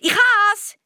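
loud, high shout of discovery; sudden cry. Acted. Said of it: "rief er plötzlich".

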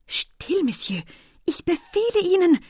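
high, sharp order to be silent; commanding. A narrator's reading. Estelle silences her admirer's confession, commanding. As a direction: order him to stop at once.

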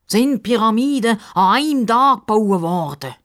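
mildly venomous question; a touch of snark; offended crocodile snapping lightly; a bit snippy. Acted. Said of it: "Fragt der Justus ein bisschen giftig".

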